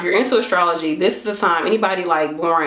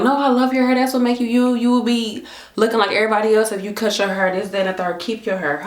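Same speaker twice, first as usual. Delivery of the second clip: husband's voice; 4 semitones higher than usual. Retold or imitated. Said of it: "my husband be like".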